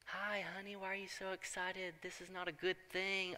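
hushed, high, half-voiced dread; a father murmuring in horror to himself.

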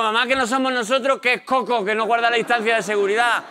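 high-pitched whine back at mum; mock childish protest. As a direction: argue back like an exasperated kid.

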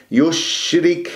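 slow يشرك with a clean unrounded sh; pure, spreading shin. Shown as a demonstration. Teacher showing correct shin, clean slow يشرك. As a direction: keep the sh of يشرك free of rounding, air spreading. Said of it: "الشين صفيها من أن تضم".

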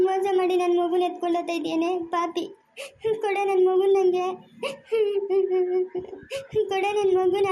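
put-on sobbing, half-shouting at the woman taking her child; a mother begs the thief to return her baby, crying; crying accusation. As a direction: cry out through tears, slowing on the demand. Mother's child taken away.

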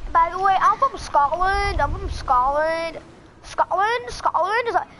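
slow, imitated British-Scottish accent; attempted British accent. Claiming to be from Scotland, attempted British accent. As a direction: draw out a put-on Scottish claim. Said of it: "how do you speak like that?".

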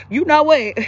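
laughing through the words; amused laugh before the idea. Real, not acted. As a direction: chuckle as you say it.

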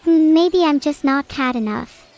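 ordinary delivery

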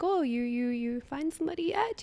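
lightly imitated grandma, rising into the question; tease-quote a prying grandma; nosy grandma. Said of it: "every time you go to your grandma's".

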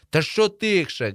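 high, slow, indignant yell; shouting back. A narrator's reading. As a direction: yell back at being hushed. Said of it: "кричу я".

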